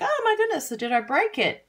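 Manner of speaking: high-pitched pretend alarm; mock panic. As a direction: imitate a viewer fretting they broke it. Voices a viewer's panic.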